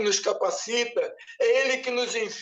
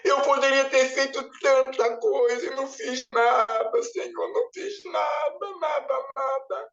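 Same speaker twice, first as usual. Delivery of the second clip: high, sobbing despair rising to cries; crying lament; 3 semitones higher than usual. Retold or imitated. Holding a tiny crystal, weeping to the Lord. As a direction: wail out the regret. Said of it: "Eu falei".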